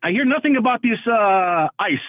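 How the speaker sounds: put-on Middle Eastern accent, lightly done; a hint of Middle Eastern accent; fake Middle Eastern accent. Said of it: "carry a bullshit accent".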